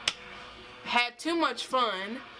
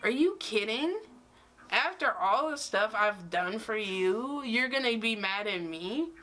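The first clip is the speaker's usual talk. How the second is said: mock outraged, are you kidding me; pissed off. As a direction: replay the furious disbelief, voice jumping up. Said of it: "And I was pissed".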